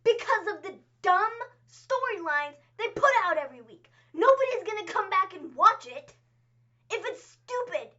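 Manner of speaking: rant. Real, not acted. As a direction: hammer every point, fed up and loud. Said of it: "hashtag his rant".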